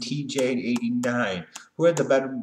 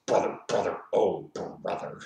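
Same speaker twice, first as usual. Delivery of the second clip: lightly voiced wrestler impression; mock climactic wrestler catchphrase; a hint of a wrestler's voice; Hogan; 3 semitones lower than usual. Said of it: "when Hogan has an orgasm, he yells".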